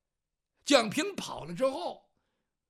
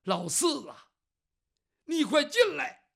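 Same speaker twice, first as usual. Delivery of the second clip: louder urgent call; 4 semitones higher, 7 dB louder than usual. Acted. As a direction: beckon him inside, quick. Calling brother in from outside.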